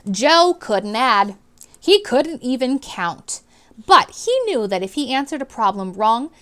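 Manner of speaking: clear, expressive read-aloud to a class; storybook reading voice; reading to children. A narrator's reading. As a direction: read it out like a teacher sharing a book. Teacher narrating chapter to class.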